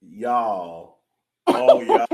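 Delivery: drawn-out attempt at a Midwestern accent; mock Midwestern accent. Shown as a demonstration. Co-host asked for her best Midwestern accent, playful Midwestern attempt. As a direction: have a go at a Midwestern twang. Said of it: "Give me your best Midwestern accent".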